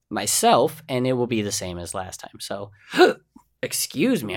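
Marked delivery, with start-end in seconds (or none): 2.4-4.4 hiccuping mid-sentence; hiccups. Real, not acted. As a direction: catch a hiccup, then apologize. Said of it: "I got the hiccups a little bit".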